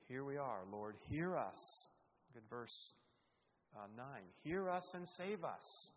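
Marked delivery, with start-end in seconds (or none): 0.1-1.9 loud, slow pleading cry; loud slow prayer of appeal; earnest plea. Acted. Voicing the king's plea. 4.4-5.9 high, loud and slow cry for help; loud slow desperate prayer; desperate plea. Acted. Voicing the king's plea.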